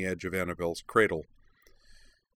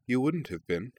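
gently; 5 semitones higher than usual. A narrator's reading. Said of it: "Anthe said gently".

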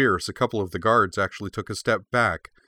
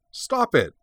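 put-on high, urgent child's protest; crying out; 13 semitones higher, 4 dB louder than usual. A narrator's reading. Cora shields her startled friend from guards, crying out. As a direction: cry out, pitched far up. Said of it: "she cried".

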